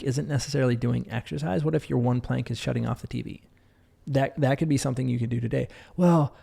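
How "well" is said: mock excuse. Imitating a listener's excuse.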